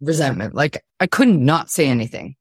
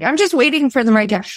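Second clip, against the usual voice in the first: mocking quote; 8 semitones higher, faster than usual. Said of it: "when people are like".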